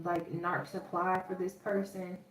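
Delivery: a light Southern US drawl slipping in. Real, not acted. Reader telling the viewer, in a light Southern US drawl. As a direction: let a hint of Southern US drawl stretch the vowels. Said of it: "with me saying that with such a southern drawl".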